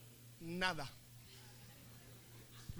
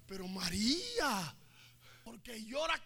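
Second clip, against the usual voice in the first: gentle angel; 4 dB quieter, much slower than usual. Acted. Angels soothe María.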